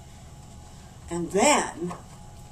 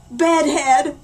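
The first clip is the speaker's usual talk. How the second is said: dramatic reveal; 3 semitones higher, 8 dB louder than usual. A narrator's reading. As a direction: slam the word down like a horror reveal. Big reveal of the bad hair.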